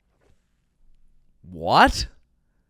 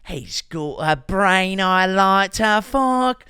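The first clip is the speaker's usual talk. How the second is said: slow, much higher mock Irish accent, Conor McGregor style; 4 semitones higher, 4 dB louder, slower than usual. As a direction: ham up a lilting Irish brogue, slowly. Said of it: "What accent is this? Is this Scottish? Is this Irish?".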